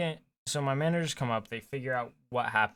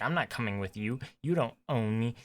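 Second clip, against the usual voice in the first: mock entitled. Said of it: "all entitled".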